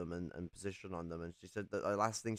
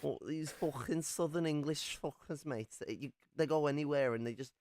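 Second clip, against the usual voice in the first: mock Aussie owl; 5 semitones higher than usual. Continues owl voice.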